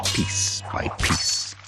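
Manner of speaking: slow, breathy threat, each word apart; menacing whisper. Acted. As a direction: hiss it out slowly like a promise. Villain vows slow revenge.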